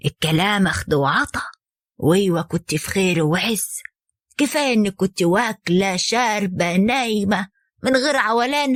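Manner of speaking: low, slow, sorrowful mother's plea; gently grieving as she advises her daughter; sad. Acted. Mother sadly urging her daughter to go back, low and slow. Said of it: "ردت عليها أمها بحزن".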